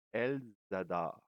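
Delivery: "elles adorent" with the s linked as a z onto "adorent"; liaison. Shown as a demonstration. Teacher showing learners the liaison in "elles adorent". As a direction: run "elles" into "adorent" with a z sound. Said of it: "You make the little liaison there".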